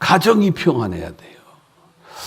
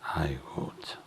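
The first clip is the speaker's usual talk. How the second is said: whispered sigh; 13 semitones lower, 17 dB quieter than usual. Real, not acted. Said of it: "sigh of exasperation".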